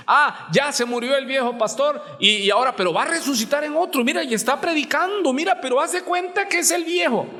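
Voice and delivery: high, fast, excited mock gossip; mocking believer. Preacher parodies people who see the old pastor reborn, hammed-up high chatter. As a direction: rattle it off like a wide-eyed gossip.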